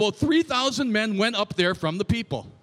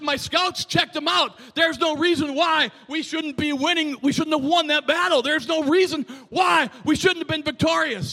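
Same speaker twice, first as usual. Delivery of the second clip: acting out a bewildered, higher-pitched protest; distraught; 5 semitones higher, 3 dB louder than usual. Preacher voices Joshua baffled by the lost battle, distraught. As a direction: protest in raised, agitated disbelief. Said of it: "and he's distraught".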